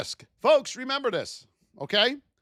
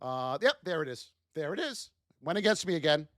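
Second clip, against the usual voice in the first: low, soft, defeated muttering; low, soft self-pitying mutter; resigned mutter; 7 semitones lower, 5 dB quieter than usual. Retold or imitated. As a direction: grumble at the screen. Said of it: "I used to sit here and do that".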